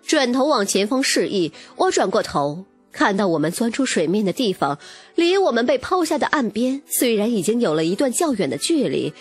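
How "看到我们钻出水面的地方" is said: plain reading voice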